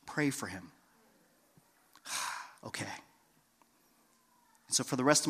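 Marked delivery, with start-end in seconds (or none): 0.1-0.7 very low, soft, persistent nudge; quiet, insistent inner voice; voice of the Lord. Retold or imitated. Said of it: "this voice of the Lord saying". 2.1-2.9 resigned giving in. Retold or imitated. Gives in after third prompting.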